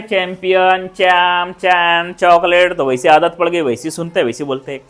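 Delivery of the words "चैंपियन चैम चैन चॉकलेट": plain च with no puff; unaspirated CH and K; Indian English CH. Shown as a demonstration. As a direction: recite चैंपियन, चैम, चॉकलेट flatly with Indian consonants. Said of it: "हम बोलते आ रहे".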